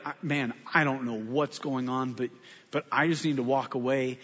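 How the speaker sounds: low, softened, backing-off voice; retold calm de-escalation. Pastor to angry florist, trying to walk away, calmly. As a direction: talk yourself down and bow out, low.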